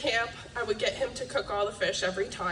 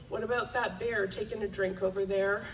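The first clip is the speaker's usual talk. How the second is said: calm; 3 semitones lower than usual. Retold or imitated. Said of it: "Dad said calmly".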